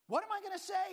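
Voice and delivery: put-on high, loud New York Jewish accent. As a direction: ask it loudly like a Jewish New Yorker. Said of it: "Jewish New York accent".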